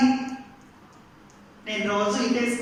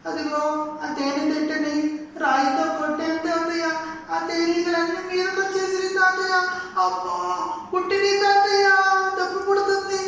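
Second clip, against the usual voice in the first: much higher, tearful whine; whimpering in pain; 6 semitones higher than usual. Acted. Stung grandson whining to his grandfather, tearful. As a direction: plead through the pain of the stings.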